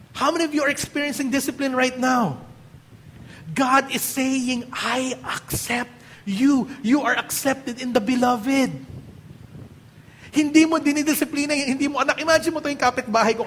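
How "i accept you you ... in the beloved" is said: tender God voice. Acted. God's voice speaking to believers.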